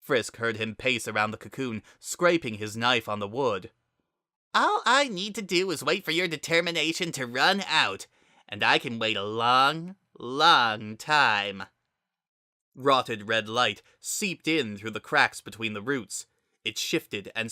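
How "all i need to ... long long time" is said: menacing villain. Acted. Villain Kara threatens Frisk.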